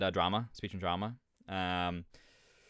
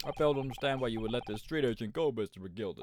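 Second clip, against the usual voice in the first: lightly voiced, questioning judge; game judge. Judge questioning McGilded about freeing the urchin, mild disapproval. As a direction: challenge the witness from the bench.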